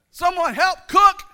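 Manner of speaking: high, loud, slow mock cry for help; needy husband. Pastor mocking himself begging his wife, shrill mock plea. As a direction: ham up the helpless husband. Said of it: "only time I went to Jenny".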